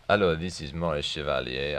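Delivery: light French accent impression; a hint of a suave French crooner accent; Maurice Chevalier French accent. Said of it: "unable to sustain the French accent".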